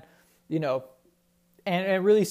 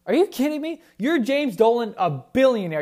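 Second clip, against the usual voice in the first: incredulous outburst; 5 semitones higher, 5 dB louder than usual. Real, not acted. Outraged rant at owner.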